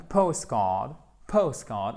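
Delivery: postcard with a long vowel in card. Shown as a demonstration. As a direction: hold the vowel in the second half of postcard. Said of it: "une voyelle longue".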